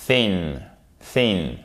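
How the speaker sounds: thin said softly and gently, a soft th; thin with a gentle, not brutal sound. Shown as a demonstration. Teacher showing the soft English th. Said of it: "C'est un son qui est doux".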